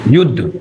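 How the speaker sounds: युद्ध with the यु held long and the द्ध snapped off; stress on first syllable. Shown as a demonstration. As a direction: stretch the यु, then bite off द्ध. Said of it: "इस पर काफी देर तक हम ध्वनि को खींचते हैं और धा एकदम से बोल देते हैं".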